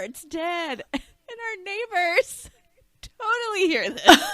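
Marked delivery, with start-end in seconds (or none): 0.0-0.8 put-on high, loud kid yell; mock screaming little kid; imitated child's scream. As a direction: holler it like a child breaking news. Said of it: "Screaming it, telling the other children".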